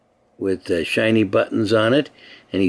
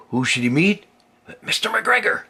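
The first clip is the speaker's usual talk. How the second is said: dramatic reveal; 10 semitones higher than usual. Acted.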